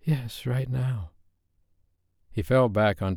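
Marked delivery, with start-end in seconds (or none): 0.0-1.1 slow, slurred plea; dazed pleading; incoherent. A narrator's reading. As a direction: mumble it half-formed. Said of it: "incoherent noise".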